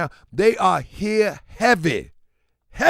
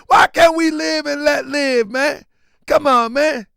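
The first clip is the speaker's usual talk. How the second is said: raised, higher-pitched appeal; exasperated plea; 5 semitones higher, 4 dB louder than usual. Real, not acted. Host urging live and let live, loud exasperated plea. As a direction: plead your case loudly.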